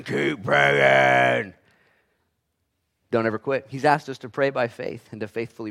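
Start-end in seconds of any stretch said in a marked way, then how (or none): 0.0-1.5 insistent shout. Acted. Preacher answering a doubting listener, insistent shout. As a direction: shout it back, firm and drawn out.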